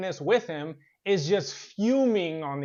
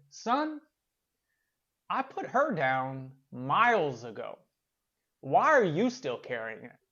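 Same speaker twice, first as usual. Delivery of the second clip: calm wise reply; 3 semitones lower than usual. Acted. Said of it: "he simply said".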